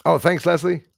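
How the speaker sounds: usual speaking voice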